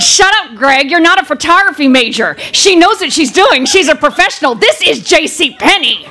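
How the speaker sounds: mock scolding through clenched teeth; acted exasperated hiss at a brother; through gritted teeth. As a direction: tell a sibling off, jaw tight. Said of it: "And through gritted teeth".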